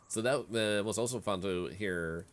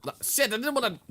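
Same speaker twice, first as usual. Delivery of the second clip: laughing; 13 semitones higher, 7 dB louder, faster than usual. Real, not acted. Character drinks by mistake.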